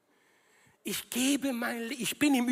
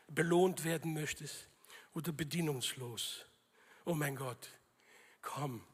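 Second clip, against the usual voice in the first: Stimme Gottes; 6 semitones lower, 4 dB quieter than usual. Acted. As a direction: speak low and intimately, as God to one person. Acting God measuring the oil level. (tiefe, leise Stimme Gottes)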